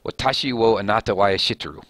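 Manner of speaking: careful foreign-phrase read in a Japanese accent; attempted Japanese. Shown as a demonstration. Showing viewers a Japanese phrase, Japanese accent. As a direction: try it like a Japanese phrase you half remember. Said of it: "I know how to say "I love you" in Japanese".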